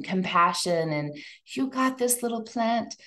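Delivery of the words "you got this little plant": a lightly raised, doting voice; sweet talk to a plant. Retold or imitated. Kids' recording praising the little plant, sweetly cooing. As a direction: coo gently to the little plant. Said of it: "things like this".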